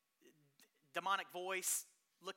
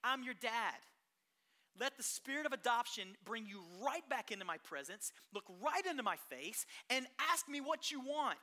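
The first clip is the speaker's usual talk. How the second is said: God as Father; 2 semitones higher, 3 dB louder than usual. Retold or imitated. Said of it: "He's saying".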